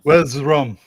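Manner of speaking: pirate growl quote; gruff old fisherman. Retold or imitated. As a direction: growl it like an old sea dog. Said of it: "to quote a famous person".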